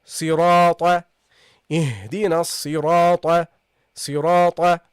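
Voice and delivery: صراط with long dark ra, then a short "ta"; ta with fatha. Shown as a demonstration. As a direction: add a short heavy "ta" to the end of صراط. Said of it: "and then you got the ta".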